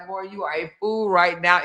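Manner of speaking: lightly voiced grandma scolding; a hint of a grandmother telling her off. Grandmother scolding her grandchild, lightly voiced. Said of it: "in my grandma voice".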